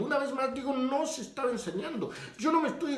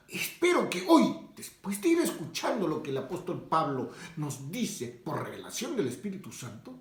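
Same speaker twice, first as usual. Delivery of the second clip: earnest appeal; 5 semitones lower than usual. Real, not acted.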